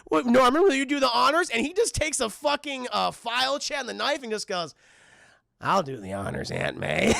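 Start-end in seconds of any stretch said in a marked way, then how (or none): 0.1-1.5 high prim aunt asking a favor; a lightly voiced proper aunt. Aunt asking Norman to carve, prim aunt voice. 5.6-7.1 lower, sinister calm reply; a hint of a creepy villain; menacing Norman. Norman answering Aunt May, lower and sinister.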